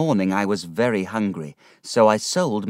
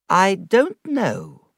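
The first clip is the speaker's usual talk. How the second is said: kindly; 11 semitones higher, 5 dB louder, much slower than usual. A narrator's reading. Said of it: "quite kindly".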